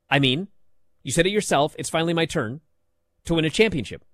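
mock choppy read, full stop after every phrase; choppy imitation. Host mimicking wrestler's choppy line read, mock stilted pauses. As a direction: chop the line into separate bits with pauses. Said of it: "She said it like this".

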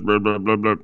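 lightly voiced mock of a droning analyst; dismissive imitation of a grating broadcaster; mocking Tim Ryan's voice. Host mocks the analyst's grating voice, lightly imitated. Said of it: "that voice like this".

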